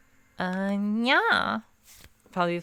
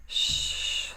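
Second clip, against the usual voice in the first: hushing whisper; 4 dB quieter than usual. Real, not acted. Hushing herself.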